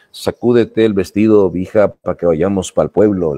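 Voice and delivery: a light Mexican dad telling his daughter, "Sacúdete el vestido, hija", pa' and pa'l clipped short; lightly voiced Mexican father, pa' que and pa'l said short and casual. Shown as a demonstration. Mexican father telling his daughter to hurry, lightly voiced Mexican accent. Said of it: "un papá mexicano que le dice a su hija".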